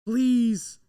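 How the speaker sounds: real desperate cry of please; loud plea. Real, not acted. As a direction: beg it out loud. Begging pick isn't Fields.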